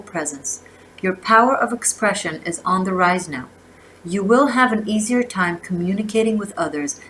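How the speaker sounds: measured oracle-card reading, phrase by phrase; reading aloud. Real, not acted. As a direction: read the card's message out with emphasis. Reads oracle guidebook aloud.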